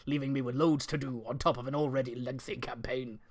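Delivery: put-on West Country reading voice; American attempt gone West Country; West Country accent. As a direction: read the script in amateur West Country. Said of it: "I'm doing it West Country".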